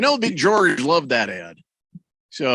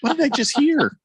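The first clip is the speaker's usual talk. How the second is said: mock DJ voice; 9 semitones higher than usual. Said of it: "the guy who talked like that".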